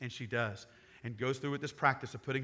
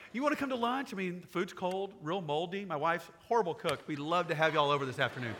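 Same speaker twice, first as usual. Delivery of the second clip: mock uninviting pitch. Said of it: "about to paint the worst picture".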